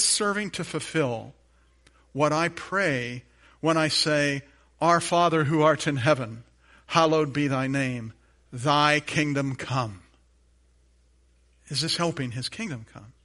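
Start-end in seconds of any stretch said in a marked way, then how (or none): 4.8-10.0 preacher reciting the Lord's Prayer, reverent; prayer recitation. Acted.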